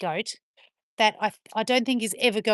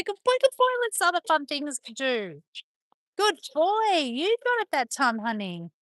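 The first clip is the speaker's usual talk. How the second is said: dog praise voice; 5 semitones higher, 3 dB louder than usual. Real, not acted. Owner praising her dogs after a jump, in high baby talk. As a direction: cheer the puppy on like a proud owner.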